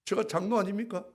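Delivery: loud high aggrieved complaint to God; complaining to God. Retold or imitated. Elder grumbling to God about cleaning toilets, loud and aggrieved. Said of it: "주님 앞에 불평을 했어요".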